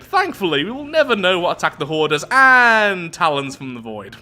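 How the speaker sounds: theatrical storybook read-out; story narration. A narrator's reading. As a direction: narrate it with big, swooping emphasis. Reads the event story aloud.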